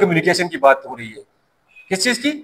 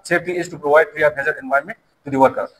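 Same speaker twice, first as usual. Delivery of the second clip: slow, careful recited answer; student's direct answer; 4 semitones lower, 3 dB quieter, much slower than usual. Retold or imitated. A student answering the teacher directly, slow recital. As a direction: spell out the definition word by word, like a student reciting. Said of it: "ये directly मुझे कहेगा".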